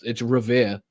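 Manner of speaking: Revere drawn out as "ruh-VEE-uh"; Boston pronunciation. Shown as a demonstration. Host proving his accent, Revere said slowly with "uh" ending. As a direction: stretch Revere, final r dropped. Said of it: "the way I say Revere".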